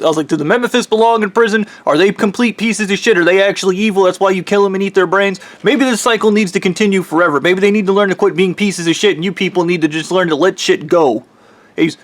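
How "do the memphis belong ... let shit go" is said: retold exasperated rant, pitched higher; pissed off. Dreamer ranting at the mummy god, exasperated and raised. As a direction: rant back at him, pitch climbing with irritation. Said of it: "And I got pissed at him".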